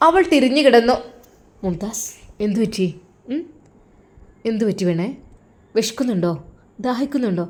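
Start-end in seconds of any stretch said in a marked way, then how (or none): 1.6-7.5 low, hushed husband teasing his wife; lightly voiced husband, soft and low; husband's voice. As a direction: lower your voice and coax her gently.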